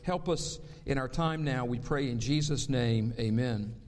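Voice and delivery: low, hushed prayer voice. Acted. Pastor praying to the Lord before the sermon, reverent and low.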